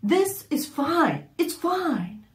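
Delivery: high, slow mocking brush-off; mock husband dismissive. Wife imitating husband's dismissal, high and slow. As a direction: drag it out like a smug husband. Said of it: "Which I hate it when he says that".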